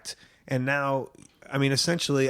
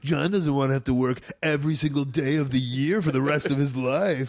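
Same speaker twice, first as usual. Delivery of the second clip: whiny fake voice; 3 semitones higher than usual. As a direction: whine it like a snooty critic. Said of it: "doing, like, the whiny fake voice".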